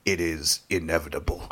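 low, soft villain pronouncement; Thanos-like villain. Acted. Playing Thanos against Aang, low villain voice. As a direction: drop the voice low and ominous. Plays Thanos in imagined crossover.

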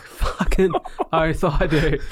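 slow, drawn-out keen yes; eager acceptance. Retold or imitated. Podcaster retelling his yes to reading lines, eager acceptance. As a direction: relish each word, half laughing.

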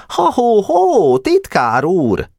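high hailing holler; shouting at him. A narrator's reading. Chairman hailing the secretary racing past, shouting high. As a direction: hail the runner to stop him. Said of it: "rákiáltott".

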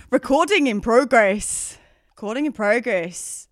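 drawn-out, bad Australian accent. Podcaster performing recording notice on request, terrible Australian accent. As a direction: attempt a hammy Australian accent. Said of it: "horrific attempt at an Australian accent".

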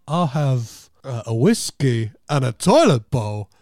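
light impression with halting, punched phrasing; hesitate, then land key words hard; loosely imitated halting storyteller; Christopher Walken. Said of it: "Christopher Walken saying".

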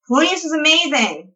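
high-pitched gushing delight; excited, pitch swooping up high; enthusiastic praise. Real, not acted. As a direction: gush with real enthusiasm. Gushing about a favorite character.

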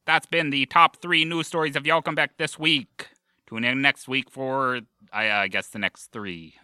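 put-on old-time radio announcer voice; fifties radio host. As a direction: read it like a vintage radio host. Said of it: "an impersonation of a fifties radio host".

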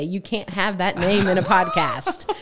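slow, laughing retelling; laughing quote. Retold or imitated. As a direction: say it through a laugh. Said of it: "they laugh and say".

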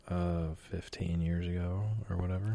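under-breath whisper; whispered aside. Real, not acted. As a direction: drop to a whisper. Muttered aside after bragging.

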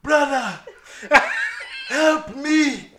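high, loud plea through laughter; imitated Lion King cry. Son told to clean up toys, mock-dramatic cry for help. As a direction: call out for rescue, hammed-up. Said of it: "No, it was Scar".

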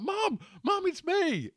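high pleading cry of Mum; a grown man calling his mum in panic; Big's boy pleading. Retold or imitated. Son pleading with frightened mum.

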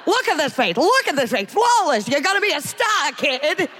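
1930s fast-talking agent voice; Hollywood agent. Retold or imitated. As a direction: hype them up like an old-time agent. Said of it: "sound like a Hollywood agent from the nineteen thirties".

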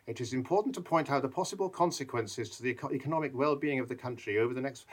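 a lightly voiced cautious expert; a hint of a dull official; mild mock pompous warning; droning expert. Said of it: "all these experts going".

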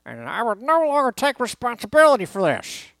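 loud, high-pitched hammed-up rant; Lou Piniella impression. Sportscaster imitates manager disowning the team, hammed-up high shout. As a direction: bellow it like a ranting manager in a bad impression. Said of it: "uh, Lou Piniella voice".

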